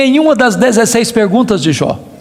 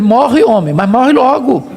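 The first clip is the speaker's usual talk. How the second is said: exasperated wife. Retold or imitated. Job's wife telling her husband to die, exasperated. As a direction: imitate a wife who has had enough.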